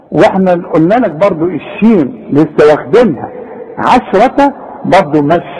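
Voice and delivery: ordinary talk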